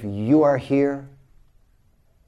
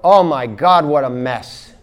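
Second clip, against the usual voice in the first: louder, mocking exclamation; mock shocked accountant; 6 dB louder than usual. Imagined accountant recoiling at your books, loud mock shock. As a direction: gasp it like an appalled accountant. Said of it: "do you expect him to go".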